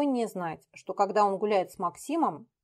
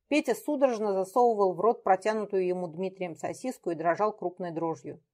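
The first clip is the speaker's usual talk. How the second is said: plain reading voice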